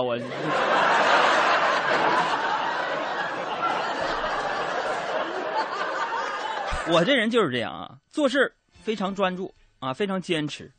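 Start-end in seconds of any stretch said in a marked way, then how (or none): 0.2-6.9 long high airy laugh, rising; can't stop laughing at his own joke; long laughter. Real, not acted. Host laughing about seven refills, long high laugh.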